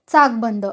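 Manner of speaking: चाक given extra weight, then falling away; firm emphasis on चाक; stress on चाक. A narrator's reading. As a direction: lean on the word चाक. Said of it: "चाक शब्दावर जोर दिला".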